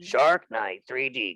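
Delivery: slow booming trailer announcer; bombastic movie guy voice. Pretend. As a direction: sell the title like a movie trailer. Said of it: "bombastic movie guy voice".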